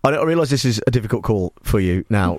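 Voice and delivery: low, gentle reassurance with mock gravity; sympathetic. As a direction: console the caller earnestly, voice dropped. Host consoles a troubled caller.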